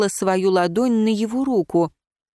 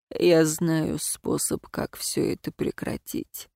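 slow, softer, fading into a whisper; hushed; 4 semitones lower, 6 dB quieter, slower than usual. Acted. Ron confesses his dark plan, slow fading whisper. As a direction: let it sink into a voiceless whisper.

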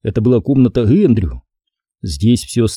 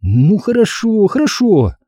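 put-on high, slow, placating girl's voice; calm him down; girl conciliatory; 10 semitones higher than usual. A narrator's reading. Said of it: "примирительно проговорила Стефани". (примирительно)

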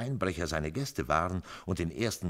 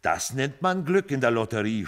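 sour grumble, higher and louder; grumbling; 8 semitones higher, 9 dB louder than usual. A narrator's reading. Joe grumbling about the lottery win. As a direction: grumble about the lucky stranger. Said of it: "schimpfte Joe".

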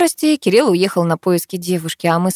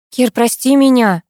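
slow, louder, higher heated plea; heatedly; 5 semitones higher, 5 dB louder than usual. Acted. Karina pleads heatedly with Kir, louder and higher. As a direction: burst out with the apology. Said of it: "запальчиво начала я".

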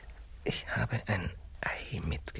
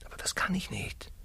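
whisper; 7 semitones higher than usual. Acted. Confession in whispers.

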